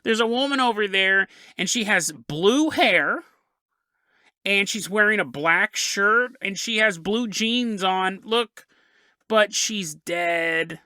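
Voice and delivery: slow, lightly put-on spooky child; creepy kid voice. Boy describing the dead woman to his parents, slow mock creepy voice. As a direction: drag it out like an eerie little boy. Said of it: "why I'm doing the voice".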